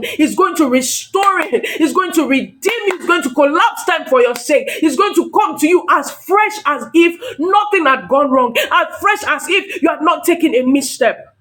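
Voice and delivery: insistent, driving preacher's cadence; fervent preaching. Real, not acted. Preacher promising congregation that God will restore and redeem, fervent preaching. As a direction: declare each promise with rolling momentum.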